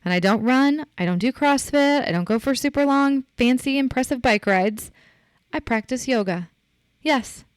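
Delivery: high, emphatic and defiant; proud comeback. Retold or imitated. Podcaster answering people who belittle her yoga business, proud and defiant. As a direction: fire back with full pride. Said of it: "I'm like".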